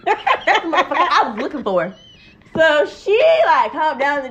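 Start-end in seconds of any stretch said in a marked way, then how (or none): 0.1-1.9 laughing mock confrontation; imitating angry friend. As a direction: quote the friend's threat through laughter. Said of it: "You see how I say that shit".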